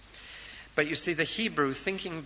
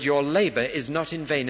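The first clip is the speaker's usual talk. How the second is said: God's comfort; 5 dB louder than usual. Acted. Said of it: "and God says".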